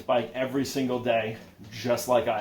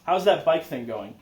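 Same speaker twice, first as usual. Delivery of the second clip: friendly greeting; 5 semitones higher, 4 dB louder than usual. Retold or imitated. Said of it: "they'd be like".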